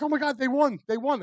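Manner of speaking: high, excited retelling of a bartender's squeal; bartender's overjoyed mock shriek. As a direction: mimic her thrilled cry, pitched well up. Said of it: "she's like".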